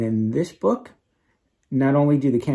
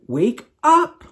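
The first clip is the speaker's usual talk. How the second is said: shout; 13 semitones higher, 6 dB louder than usual. A narrator's reading. Oliver shouting to wake Norm.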